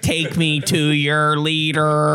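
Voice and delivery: slow, drawn-out alien robot voice; like a stiff alien ambassador; booming arrogant alien overlord. Pretend.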